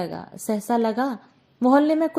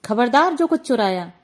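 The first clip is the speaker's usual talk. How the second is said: mild scolding; 4 dB louder than usual. Acted. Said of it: "Munna ने डांटा".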